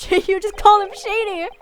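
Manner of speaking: amused disbelief, laughing out. Real, not acted. Laughs at insult exchange.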